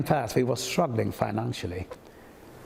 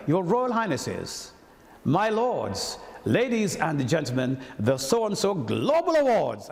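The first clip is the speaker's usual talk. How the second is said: slow, grand announcing voice, higher; formal toastmaster announcement; 3 semitones higher, slower than usual. Retold or imitated. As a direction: proclaim like a toastmaster opening a gala. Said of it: "no, sorry".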